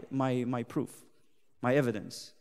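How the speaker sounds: quiet pulpit hush; hushed preaching. Acted. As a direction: confide the proof. Sudden hush.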